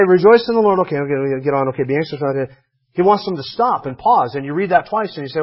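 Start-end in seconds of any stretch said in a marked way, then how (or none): 0.1-2.5 dismissive reader. Retold or imitated. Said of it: "start reading through this and say".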